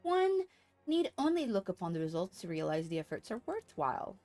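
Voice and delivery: brisk, measured story reading; formal quest-giver reading. Acted. Streamer voices a quest giver explaining materia, formal read-aloud. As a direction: read it as formal game dialogue. Reads game character's dialogue aloud.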